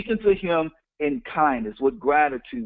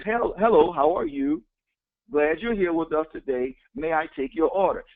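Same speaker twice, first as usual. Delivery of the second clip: grateful and warm. Shown as a demonstration. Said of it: "gratitude and love".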